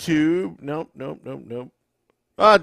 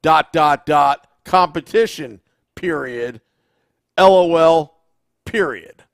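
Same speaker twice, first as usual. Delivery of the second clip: reading comment aloud; 4 semitones higher, 6 dB louder than usual. Retold or imitated. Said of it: "You want me to read it?".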